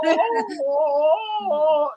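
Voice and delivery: high, drawn-out wailing ohs; Tarzan-like oh. Real, not acted. Resisting a yawn on air, Tarzan-like wail. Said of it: "you sound like Tarzan".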